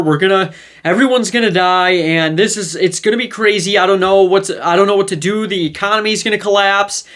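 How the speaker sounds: acting out a friend spooked by the news; freaking out. Telling a buddy about Trump news, acting mildly panicked. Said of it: "now we're freaking out".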